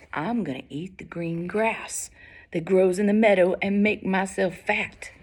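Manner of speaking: unhurried, steady goat voice; calm big goat. Acted. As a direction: answer the troll without a tremor. Unafraid big goat answers troll.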